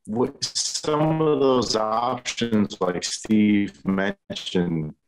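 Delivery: laggy, slowed-down robotic glitchy audio; like a bad internet connection stretching words. Real, not acted. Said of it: "Drunk robot".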